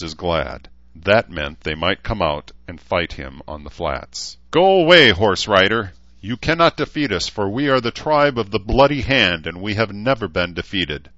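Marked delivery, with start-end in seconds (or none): 4.5-11.1 very high, loud screech; screeching orc. Acted. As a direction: shriek it back over the wall. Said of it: "a high voice screeched back".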